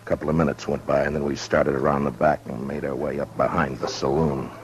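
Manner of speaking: measured narrator voice over music; story narration. A narrator's reading. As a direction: tell it like a western lawman recalling.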